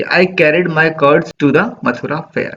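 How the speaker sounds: slow, measured recitation of the verse; poem reading. Acted. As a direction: read the line slowly, savouring it. Reading poem lines slowly.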